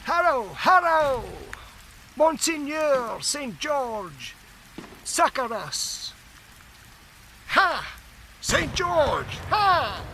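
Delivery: high, slowed battle cries from a phantom army; hammed-up medieval war shout; shouting host. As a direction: cry to the saint as ghostly archers. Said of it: "thousands shouting".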